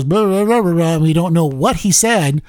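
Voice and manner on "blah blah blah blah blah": mumbled blah imitation. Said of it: "one of those other Biden things where he kinda goes".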